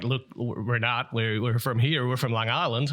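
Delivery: halting, badly imitated Long Island accent; terrible Long Island accent. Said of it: "that's a terrible impression".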